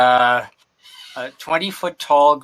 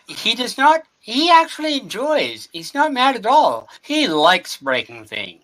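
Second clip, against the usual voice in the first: excited; 8 semitones higher than usual. Real, not acted. Describing gorilla's mood eagerly.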